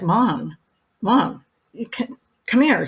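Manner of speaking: lightly voiced son calling; son calling mom. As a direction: call her over from the next room. Son calling mother from room.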